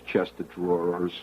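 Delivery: New Jersey accent, "chest of drawers" run together like "chestadraws"; Jersey pronunciation. Shown as a demonstration. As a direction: say "chest of drawers" the Jersey way, slurred as one word. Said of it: "with the Jersey pronunciation there".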